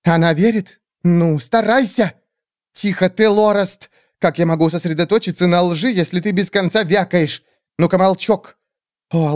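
fawning creature. Acted. Skeletal bird creatures grovelling before the great witch, high squeaky.

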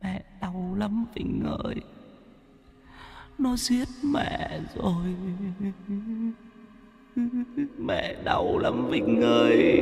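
a dead mother moaning in pain from beyond; ghostly moan. Acted. (hồn mẹ rên rỉ đau đớn, chậm và thều thào)

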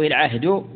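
العهد ending in u, "al-'ahdu". Shown as a demonstration. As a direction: say العهد as "al-'ahdu", with final damma. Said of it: "أو العهد مثلث".

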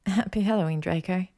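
lifted, affectionate return greeting; female lover's reply. Acted. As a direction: answer him in a lighter female voice. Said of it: "she replied".

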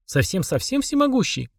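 put-on high, probing little girl; nitpicking. A narrator's reading. Mashka testing whether he is really almighty, nitpicking. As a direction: press the question in a high voice. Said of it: "проявила въедливость Машка".

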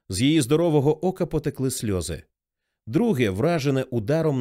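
ordinary delivery, nothing marked

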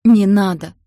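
a captive howling to be spared; desperate wail. A narrator's reading. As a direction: scream it out in panic. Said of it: "раздался вопль".

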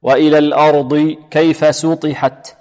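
measured verse, الأرض with thick dad; tajweed recitation. Shown as a demonstration. Teacher models the whole verse, slow recitation. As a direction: recite سطحت slowly with light seen, heavy ta. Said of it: "سطحت سين".

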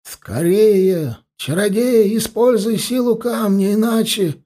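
high-pitched anxious urging; urgent plea. A narrator's reading. Elf urging the sorcerer to use the stone, urgent plea.

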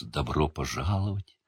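a hushed unearthly seer greeting; echoing ethereal energy being. A narrator's reading. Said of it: "приглушённый, почти неземной голос".

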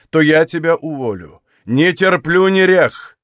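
rising angry reprimand; stern scolding master. Acted. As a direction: scold the maid, building to a shout.

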